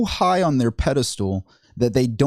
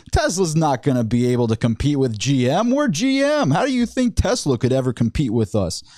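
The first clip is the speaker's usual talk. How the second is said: mocking Lutz. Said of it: "laughing his head off about Tesla".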